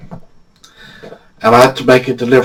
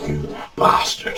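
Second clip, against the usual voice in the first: mock outrage; 9 dB quieter, slower than usual. She hits back at his joke.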